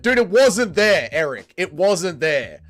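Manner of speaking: WASN'T drawn out slowly and hit hard; emphatic protest. Real, not acted. Streamer defending himself to teasing chat, slow emphatic protest on "wasn't". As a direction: insist slowly, leaning on "wasn't".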